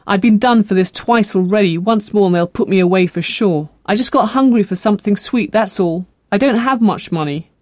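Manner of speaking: a touch of pleading; anxious girl pleading. Acted. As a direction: make excuses as a cornered young woman.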